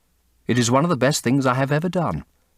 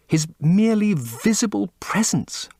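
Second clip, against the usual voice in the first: a reverent whisper; hushed whisper; 9 semitones higher than usual. Acted. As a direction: breathe it out in a whisper. Basil repeats the phrase, hushed.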